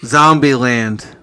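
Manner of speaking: to someone hard of hearing. Real, not acted. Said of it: "I can't hear you".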